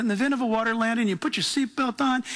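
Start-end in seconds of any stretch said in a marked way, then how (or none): 0.0-1.1 fast, breezy safety announcement; confident attendant. Retold or imitated. Mocking confident flight crew, fast breezy announcement. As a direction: rattle it off breezily. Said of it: "those flight attendants are so confident".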